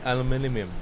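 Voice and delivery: "aluminium" with the middle syllables muddled; imitated mispronunciation. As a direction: stumble through "aluminium", jumbling m and n. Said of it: "you also just said it wrong".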